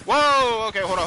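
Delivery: sudden loud, high whoa; startled exclamation; surprised. Real, not acted.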